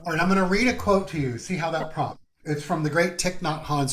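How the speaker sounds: stuffy, congested voice; runny nose. Real, not acted. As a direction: speak through a runny nose. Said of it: "Sorry, I keep blowing my nose".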